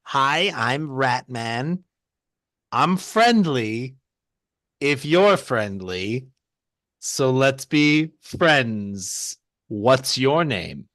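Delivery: very slow, drawn-out rat man voice; awkwardly friendly disguise, trying not to sound normal; disguised voice. Acted. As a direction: stretch every word in a swooping put-on voice. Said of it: "trying not to sound normal".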